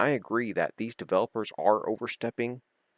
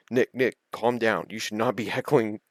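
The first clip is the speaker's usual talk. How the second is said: umpire calming; 3 semitones higher, 5 dB louder than usual. Retold or imitated. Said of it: "the line umpire's like".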